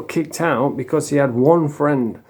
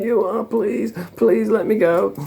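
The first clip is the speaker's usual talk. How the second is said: mock girlish pleading; 9 semitones higher than usual. Beaten troll begging his attacker, mock girlish pleading. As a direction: imitate a little girl begging for release. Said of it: "sounds like a little girl".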